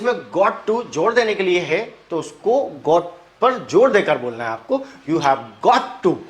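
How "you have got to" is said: got said slowly with weight; stress on got. Shown as a demonstration. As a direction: press down on got. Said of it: "emphasize got". (got पर जोर देकर)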